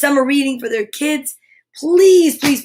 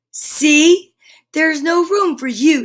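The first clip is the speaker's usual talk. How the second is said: triumphant; 3 semitones higher, 4 dB louder, slower than usual. Acted. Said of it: "they said".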